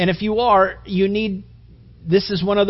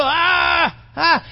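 squeaky stammer; 9 semitones higher than usual. Pretend. Mock Paul stammering.

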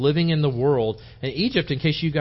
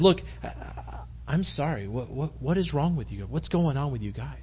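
hesitant, softened, caring questions; gentle concern; 4 dB quieter than usual. Pretend. Preacher voices Joseph checking on troubled cellmates, gently concerned. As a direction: ease off into mild sympathy.

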